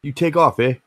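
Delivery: high, loud, hammed-up Canadian accent; bad Canadian impression. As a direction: lay the Canadian accent on thick for a joke. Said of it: "worst Canadian impression".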